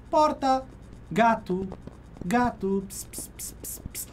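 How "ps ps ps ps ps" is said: whispered psst to lure a cat; soft unvoiced psst-psst, coaxing a cat; cat-calling psst. Real, not acted.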